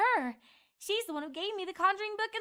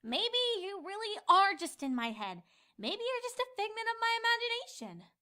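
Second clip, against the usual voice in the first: grumbling. Acted. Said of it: "Twilight grumbled".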